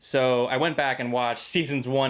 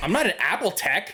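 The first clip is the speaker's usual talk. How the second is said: high, touchy, offended tone; 6 semitones higher than usual. Retelling a store employee's reply to one more question, imitating an offended tone. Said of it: "And he kind of got offended".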